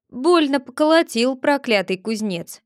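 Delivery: a hint of sore grumbling; grumbling Chub. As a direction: mutter it, rubbing your bruised back. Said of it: "почёсывал спину, произносил". (Чуб ворчит, почёсывая спину)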